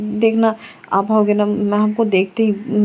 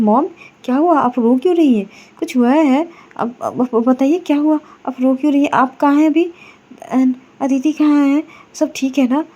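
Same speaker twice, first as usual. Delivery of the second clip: higher, anxious rush of questions to mom; worried questions; 4 semitones higher than usual. Acted. Myra, hearing her mother-in-law cry on the phone, anxiously asks what happened. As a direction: pitch rising with worry, pressing for answers.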